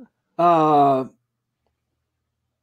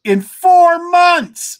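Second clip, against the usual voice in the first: exasperated exclamation; 9 semitones higher, 6 dB louder, much slower than usual. Real, not acted.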